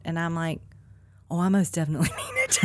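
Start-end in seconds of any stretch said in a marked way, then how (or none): 1.3-2.6 quick, laughing, raised voice; laughing through the words; laughing insistence. Real, not acted. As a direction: laugh it out in a rush.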